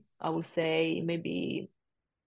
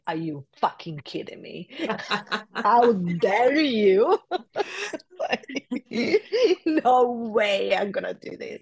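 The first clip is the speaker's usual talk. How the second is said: mock outrage through laughter; giggling indignant protest; laughing outrage; 5 semitones higher, 5 dB louder than usual. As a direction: laugh while protesting how dare you. Outraged retold reaction to friend.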